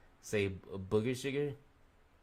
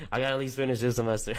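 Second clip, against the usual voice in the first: determined self-talk; 3 semitones higher, 6 dB louder, faster than usual. Pretend. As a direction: pump yourself up to finish the semester. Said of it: "just think about it".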